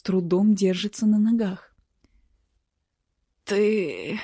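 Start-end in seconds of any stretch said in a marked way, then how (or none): 3.4-4.2 croak. A narrator's reading. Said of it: "прохрипел он".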